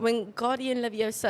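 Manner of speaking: put-on precise British-accented spell; Hermione. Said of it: "Sound like fucking Hermione".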